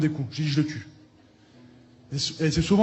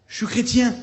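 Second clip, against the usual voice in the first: rushed, swallowed words; 6 semitones higher, 4 dB louder than usual. Retold or imitated. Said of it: "Je l'ai mangé la parole pour pas qu'il écoute".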